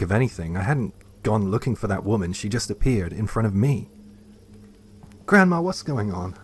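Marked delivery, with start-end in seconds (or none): 5.3-6.4 hesitant question. A narrator's reading. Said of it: "I asked hesitantly".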